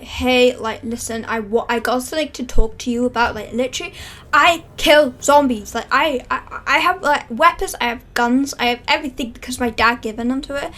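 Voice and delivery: loud, cocky boasting about his weapons. Acted. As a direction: brag loudly to impress the girls. Boy boasting to the girls.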